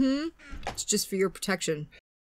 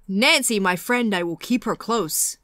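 bad Freddy Krueger voice; slower than usual. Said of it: "that was a terrible Freddy impression".

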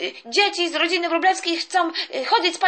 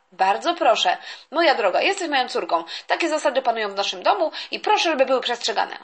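strict father; 5 semitones lower than usual. Acted. Father voice, low and firm.

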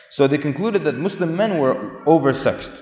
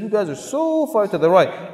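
mock astonishment; 7 semitones higher than usual. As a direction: exaggerate their disbelief, stretching the words. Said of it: "looked back at the Muslims and said".

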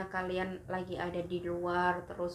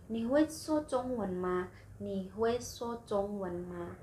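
slow clear question; slower than usual. Shown as a demonstration. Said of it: "seperti ini".

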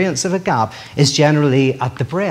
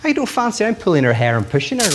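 put-on little boy denying; 5 semitones higher, faster than usual. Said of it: "the little boy".

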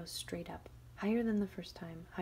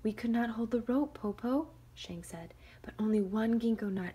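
put-on higher, sweetly calling girl; clever girl; 4 semitones higher, 6 dB louder than usual. Shang calls down.

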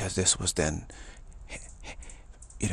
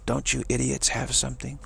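higher, hammed-up diva scolding; imitated irate goddess, not a full scream; mock scream at attendants; 4 semitones higher than usual. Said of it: "she's screaming at her attendants".

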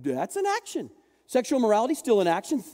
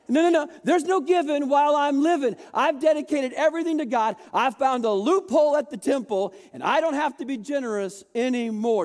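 mock smug refusal; 4 semitones higher than usual.

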